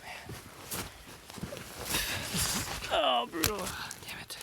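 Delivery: breathless whisper climbing uphill; trudging through snow. Real, not acted. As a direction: gasp it out, spent from the climb. Steep climb through deep snow.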